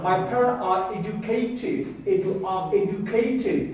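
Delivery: "my parent are educated" said very slowly; slow model sentence. Shown as a demonstration. Teacher drilling a sentence for children, slowly. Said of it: "P sound".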